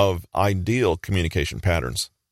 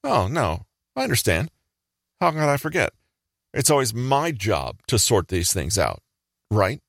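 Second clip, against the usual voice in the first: mock-sweet martyr, pitched up at the start; sugary sweet; 4 semitones higher than usual. Passive-aggressive friend delivering a hidden jab, sugary sweet. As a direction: say it through a sugary smile. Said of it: "As they deliver with the sugary sweet smile".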